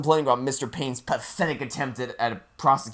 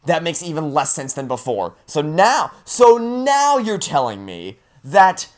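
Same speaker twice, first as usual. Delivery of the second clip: raised, louder, incredulous rant; getting mad; 4 semitones higher, 4 dB louder than usual. Real, not acted. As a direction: rant at the absurd plot. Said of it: "it sounds like I'm getting mad at the game".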